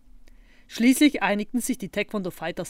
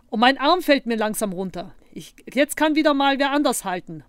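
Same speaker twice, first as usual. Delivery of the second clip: whiny, raised-pitch complaint; grumbling; 5 semitones higher, 6 dB louder than usual. A narrator's reading. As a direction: moan about having to hold it. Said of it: "maulte Zottel".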